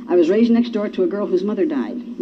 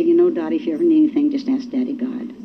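tender father; 4 semitones lower than usual. Retold or imitated. Voicing God as tender father.

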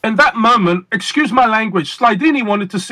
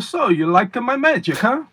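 Slidini impression; 4 semitones higher than usual. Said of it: "I'll give you my Slidini impression".

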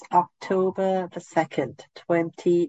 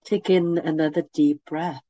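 guided meditation. Acted. Leads a meditation.

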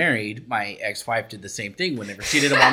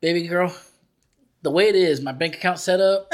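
Erica's mom; 4 semitones higher than usual. Retold or imitated. Imitating a mom explaining her bank account to daughter, mock motherly. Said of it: "her mom looks at her, Erica, and she goes".

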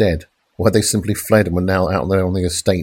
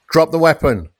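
commanding shout; 8 semitones higher than usual. A narrator's reading. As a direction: order her to drop it. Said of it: "commanded again".

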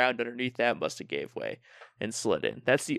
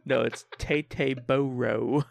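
mock Texan; slower than usual. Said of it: "how the Texans would say it".

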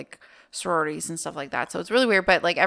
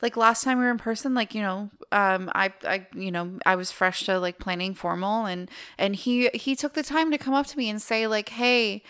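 higher, bubbly retold friend, fading down; lightly voiced excited girl; 5 semitones higher than usual. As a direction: gush it out, settling toward normal. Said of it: "And she goes".

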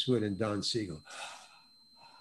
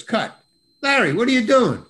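mock director halting the take, high and louder; director calling out; 9 semitones higher, 6 dB louder than usual. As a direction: call out a puzzled challenge across the set. Director stops the scene.

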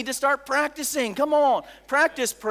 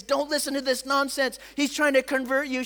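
urgent warning; 4 semitones higher than usual. Retold or imitated. Friend pulls her away, warning.

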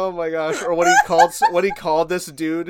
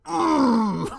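high, drawn-out uneasy hum; wide-eyed "mm"; 8 semitones higher than usual. Retold or imitated. Onlookers reacting to Biden's stumble, shocked high hum. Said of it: "widen their eyes and go".

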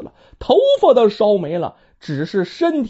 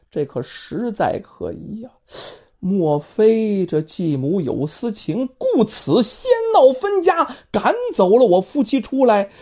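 suspicious musing; 3 semitones higher than usual. Acted. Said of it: "这江启就琢磨".

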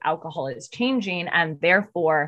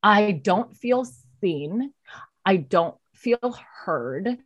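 pleading; slower than usual. Retold or imitated. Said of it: "And I said".

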